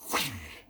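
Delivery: quick mouth-made whoosh; imitated snapping-off noise. Storyteller miming a stolen sign coming off, whooshing noise. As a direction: mimic metal being wrenched loose.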